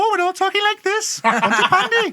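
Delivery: put-on loud, high, sing-song Welsh accent; hammed-up excitable Welsh, pitched right up; mock Welsh accent. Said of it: "He's Welsh, isn't he".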